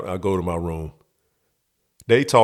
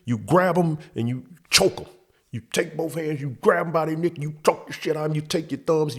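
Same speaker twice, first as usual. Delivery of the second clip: dad's gruff coaching; 6 semitones higher than usual. Retold or imitated. Dad giving fight instructions.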